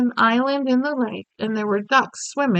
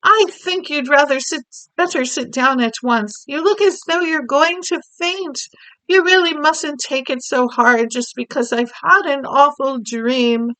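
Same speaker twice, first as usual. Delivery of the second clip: concerned Queen; 5 semitones higher, 4 dB louder than usual. Acted. Queen tells maid to sit.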